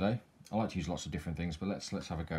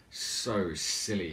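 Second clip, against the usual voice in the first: hissed; much slower than usual. Acted. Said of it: "hissed Snake".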